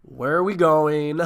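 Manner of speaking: slow, loud, drawn-out eager question; hammed-up giggly excitement; giddy mock eagerness. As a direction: play it thrilled, stretching the words. Acts out own giddy reply.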